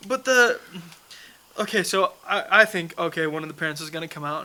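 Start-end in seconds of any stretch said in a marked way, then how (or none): 0.1-0.6 higher, louder words broken by laughter; laughing while talking. Real, not acted. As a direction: tell it while cracking up. Laughing while telling the mix-up.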